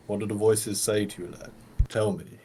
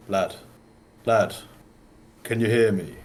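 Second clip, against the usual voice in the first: gentle call; 3 dB louder than usual. Acted. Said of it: "put a hand upon him and go".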